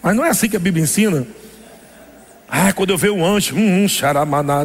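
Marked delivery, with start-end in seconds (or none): 2.5-4.6 mocking old prayer style. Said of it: "Antigamente eu orava assim".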